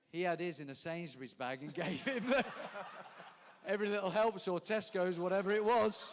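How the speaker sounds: laughing loudly through the punchline; can't stop laughing while telling it. Real, not acted. Laughing while telling a funny anecdote.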